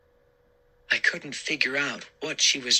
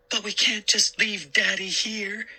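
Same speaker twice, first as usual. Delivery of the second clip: put-on girl voice; 10 semitones higher than usual. A narrator's reading. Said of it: "Sari replied".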